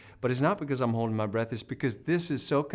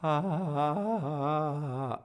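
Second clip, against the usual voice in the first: squeezed ah; 4 semitones higher than usual. Shown as a demonstration. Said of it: "maybe this happened".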